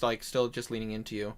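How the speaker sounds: ordinary talk, nothing marked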